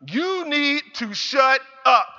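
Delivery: slow, stern repeat of the command; slow firm scolding. Retold or imitated. Mother repeats her order to son, slow and stern. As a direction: drag each word out to drive it home. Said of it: "she lashed out at me".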